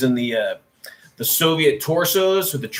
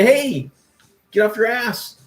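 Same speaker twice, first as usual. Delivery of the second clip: mock call-out; 6 semitones higher than usual. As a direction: bark it at a lazy producer, half-joking. Imagined call to a producer.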